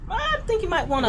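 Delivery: high, loud, laughing hint; laughing advice. Retold or imitated. Comic to the man planning the Looney Bin, laughing. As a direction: barely hold back a laugh.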